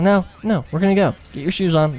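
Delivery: high-pitched imitation of her; insistent girlfriend. Imitates woman ordering him out.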